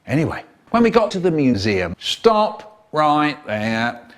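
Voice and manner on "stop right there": guard's stop. Retold or imitated. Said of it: "said the white guard".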